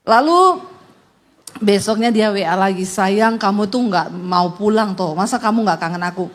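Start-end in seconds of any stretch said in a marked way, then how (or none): 2.9-6.3 coaxing husband. Retold or imitated. Husband gently begs his wife to come home. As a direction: coax her home gently.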